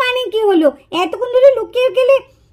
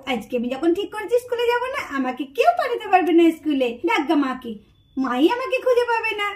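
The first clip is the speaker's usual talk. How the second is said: soft, low secret glee; hushed gleeful aside; 5 semitones lower, 5 dB quieter than usual. Acted. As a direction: whisper your triumph to yourself. Hiding child whispers gleefully. (লুকিয়ে চুপিচুপি খুশিতে বলা)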